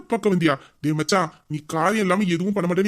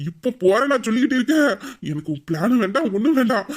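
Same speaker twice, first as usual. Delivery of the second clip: mock rage; 4 semitones higher than usual. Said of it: "வர்ற ஆத்திரத்துல".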